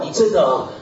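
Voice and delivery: ordinary delivery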